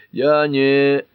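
high, loud burst of irritation cut short; angry. A narrator's reading. Cart bristles at Pat's remark, angry. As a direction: start an angry protest, then break off. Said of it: "сердито начал Карт".

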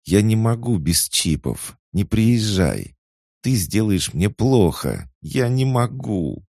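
high, slow, tearful begging; weeping sister begs him not to come; sobbing plea. Acted. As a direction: cry out the words through sobs. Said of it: "Она судорожно всхлипывала".

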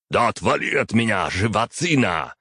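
angry snarl at a pest; growled. Acted. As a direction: snarl it out to shove him away. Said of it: "рыкнул Батори".

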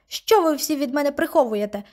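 high pitched, slowing indignant demand; angry demand. Acted. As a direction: insist on answers, voice climbing high. Girl shouting at grandmother.

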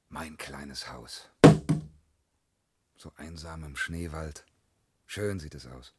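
hushed, low-pitched, fond; tender contentment. Acted. Admires his finished forest hut.

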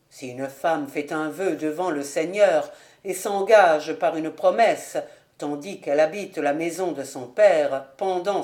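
measured minister's voice, pitched low; solemn scripture reading. Acted. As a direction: read the holy text gravely. Minister reads from the Bible. (lecture biblique grave et solennelle)

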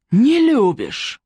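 roar. A narrator's reading. Oleg to Varya after she says she doesn't love him, roaring. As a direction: roar the question back at her in disbelief. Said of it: "взревел он".

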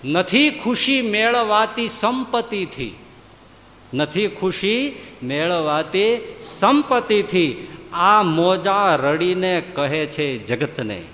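slow, grave chant of a maxim; solemn proclamation. Acted. Guru teaching the disciple, a slow solemn intonation. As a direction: intone it slowly like a sacred saying. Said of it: "ગુરુ, ચેલા લખી રાખજે".

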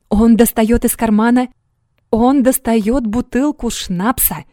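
high, loud and slowing exclamation; excited exclamation. A narrator's reading. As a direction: cry out in astonished disbelief. Valdemar exclaims at ghost.

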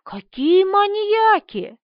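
slow, high gasp of alarm; gasping in shock. A narrator's reading. Marina gasps seeing the bodies on the floor, shocked. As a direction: drag it out, shocked. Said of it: "ахнула Марина".

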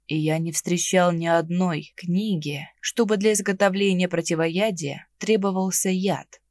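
ниже, медленно, свысока; поучать свысока; высокомерно. Acted. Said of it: "высокомерно произнёс". (высокомерно и медленно)

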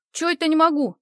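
loud, high indignant yell; вопль девчонки. A narrator's reading. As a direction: yell it back at her, offended. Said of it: "завопила девчонка". (громкий возмущённый вопль)

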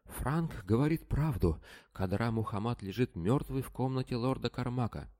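Selim bursts in shouting the news. A narrator's reading. Selim shoves past to shout the news to everyone. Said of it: "прокричав".

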